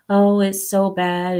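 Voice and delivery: slow, lightly put-on lament; mock complaining. Imitating Rachel complaining about the raids, mock complaining. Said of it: "she's gonna come here with the".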